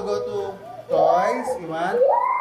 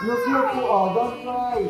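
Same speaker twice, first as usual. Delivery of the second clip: higher-pitched hushing coax; 6 semitones higher, slower than usual. Real, not acted. Parent to toddler at the haircut, soothing.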